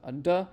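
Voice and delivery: a short plain d sound, "duh". Shown as a demonstration. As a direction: say "duh" with a quick hard d. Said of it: "it's just like a duh".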